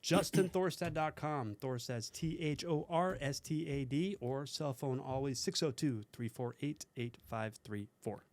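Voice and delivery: slow, smooth radio announcer read. Acted. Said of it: "That's your radio voice?".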